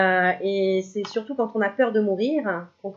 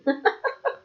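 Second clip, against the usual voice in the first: high giggle; 13 semitones higher than usual. Real, not acted. Laughing at own accent.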